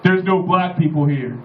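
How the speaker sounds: slow, deadpan declaration in a put-on voice; big guy's announcement. Huge stranger announcing it to the bar, slow deadpan. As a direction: plant each word like the big guy. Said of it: "he goes".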